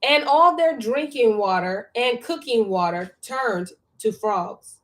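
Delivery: measured, emphatic reading aloud; scripture reading. A narrator's reading. Reading scripture to a study partner, measured read-aloud. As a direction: read the verse out slowly and firmly.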